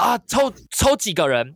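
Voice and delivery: slow boss asking the host how many winners; drunk boss asking. Retold or imitated. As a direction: drag it out like a tipsy boss. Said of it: "然后说".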